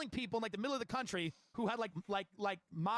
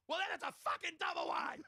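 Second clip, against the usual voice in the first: high, strained shout without much volume; mock screaming; 4 semitones higher than usual. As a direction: imitate a salesman yelling down the phone.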